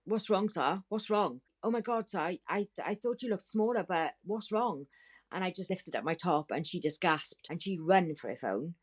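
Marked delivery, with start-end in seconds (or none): 0.1-4.9 acted alarmed concern. Acted concern on seeing her unwell.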